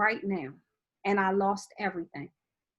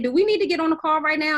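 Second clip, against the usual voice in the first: faster and louder, pushing for action; urgent eager question; 4 semitones higher, 6 dB louder, faster than usual. Retold or imitated. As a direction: fire it off like a call to action. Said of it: "I really said".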